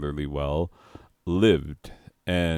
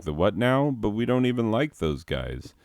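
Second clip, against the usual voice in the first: higher-pitched imitation of a bewildered objection; baffled mock protest; 5 semitones higher than usual. Iraqis voiced protesting the announcement.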